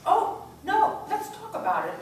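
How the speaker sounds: high, loud mock refusal; taunting no. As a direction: needle him with a sharp no. Actor's character taunting partner.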